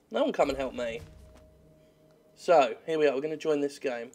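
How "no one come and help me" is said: muttered repeat. Shown as a demonstration. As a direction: grumble it to yourself.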